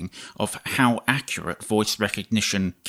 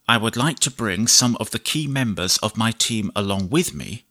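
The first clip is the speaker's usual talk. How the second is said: measured dictation, punctuation spoken aloud; slow dictation with punctuation. Shown as a demonstration. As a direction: dictate to the computer, clear and even. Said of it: "I'll do some basic dictation".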